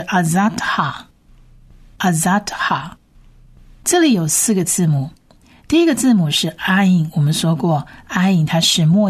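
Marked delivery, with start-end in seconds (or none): 0.0-2.9 "azatha" slowly, syllable by syllable; Hebrew word demonstrated. Shown as a demonstration. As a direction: model "azatha" twice with a pause between. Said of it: "第二个字呢是". (慢速分音节示范“azatha”)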